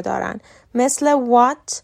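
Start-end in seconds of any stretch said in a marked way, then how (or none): 1.2-1.7 "what" begun with a rounded W; W sound. Shown as a demonstration. Teacher giving WH examples, "what" said with W. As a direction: round the lips to start "what". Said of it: "تلفظ مشابه W".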